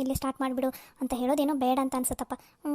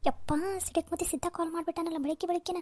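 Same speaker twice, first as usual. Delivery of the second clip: soft, dreading mutter; hushed groaning aside; grumbling to oneself; 6 dB quieter than usual. Acted. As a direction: complain under your breath about the caller. Grumbling to herself about caller.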